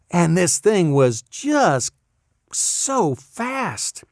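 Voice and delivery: slow, high, hushed wonder; awed amazement. Retold or imitated. Amazed at the computer's speed.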